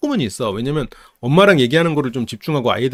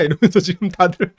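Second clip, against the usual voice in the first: ordinary talk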